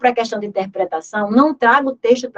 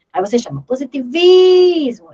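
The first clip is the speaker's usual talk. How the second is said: positivismo loud and slow, vis held; teacher stressing vis; stressing the tonic; 6 semitones higher, 7 dB louder than usual. Shown as a demonstration. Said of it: "mais tônico".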